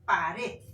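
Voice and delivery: pared said loud, weight on final RED; stress on RED. Shown as a demonstration. Teacher giving an example, pared stressed on RED. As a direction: land firmly on RED in pared. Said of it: "la fuerza de voz está en red".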